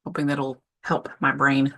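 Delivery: talking while chewing almonds; mouth full. Real, not acted. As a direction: speak through a mouthful of nuts. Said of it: "Sorry, I'm chewing".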